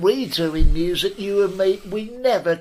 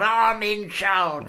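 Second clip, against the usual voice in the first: slow bossy declaration; 2 semitones higher, much slower than usual. Retold or imitated. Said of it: "She's gone".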